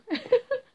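short laugh. Real, not acted. Laughs at own take.

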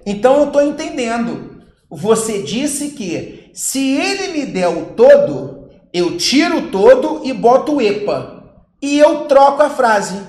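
imitating a student.

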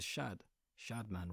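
everyday English "Shadman", flat "a" as in "cat"; "Shadman" rhyming with "bad man"; anglicised name pronunciation. Shown as a demonstration. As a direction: say "Shad" and "Shadman" with the English short "a". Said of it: "That's normally how I introduce myself".

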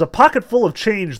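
acted cabbie's indignant cry; bawled. A narrator's reading. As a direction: bawl it out without going to full volume. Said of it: "driver bawled".

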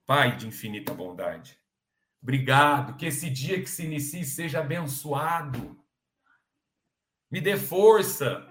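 earnest demonstration of a personal prayer; sincere prayer. Shown as a demonstration. Speaker shows how to ask the Father, sincere prayer. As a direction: pray simply and from the heart, unhurried. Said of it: "Através da oração sincera".

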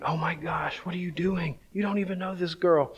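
softly aghast, as if thinking it; incredulous inner thought. Retold or imitated. Appalled friend thinking at the praying guy, hushed disbelief.

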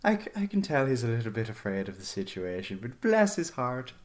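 soft, quick aside; under her breath. Acted. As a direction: confide it quietly to yourself, quickly. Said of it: "under her breath".

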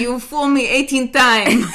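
Russian saying. Pretend. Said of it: "What is that saying".

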